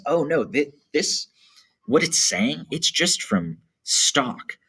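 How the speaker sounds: high, slow brushing-off voice; dismissive narrator. Retold or imitated. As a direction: wave the idea away as the narrator.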